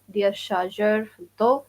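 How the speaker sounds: "دير شارجر في الضوء" said quickly with a rising end; quick teacher demo of "دير شارجر في الضوء"; model phrase. Shown as a demonstration.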